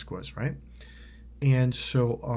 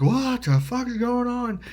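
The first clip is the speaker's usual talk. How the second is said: alarmed disbelief; 11 semitones higher, 4 dB louder, slower than usual. Retold or imitated. Retells own shocked reaction.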